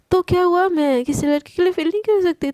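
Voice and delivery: भड़कते हुए. Acted. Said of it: "तू इतना भड़क क्यों रही है?".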